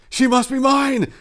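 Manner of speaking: loud, high and slow, stress on she; loudly. A narrator's reading. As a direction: declare it loudly for all to hear. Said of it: "now loudly so that Turga heard him".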